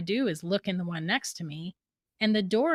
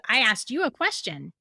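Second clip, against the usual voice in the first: lightly imitated robot voice; even, mechanical robot voice. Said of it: "like, in the robot voice".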